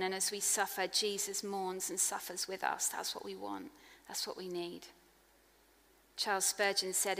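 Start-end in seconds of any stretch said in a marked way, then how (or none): 2.9-4.9 hushed conviction. Real, not acted. Quiet emphatic conclusion.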